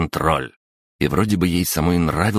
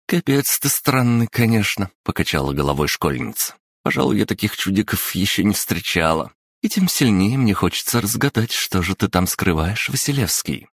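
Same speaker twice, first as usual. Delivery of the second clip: put-on higher, coaxing teenage girl; lively schoolgirl voice; 4 semitones higher than usual. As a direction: cajole a shy classmate. Yulia teasing. (бойкая школьница уговаривает)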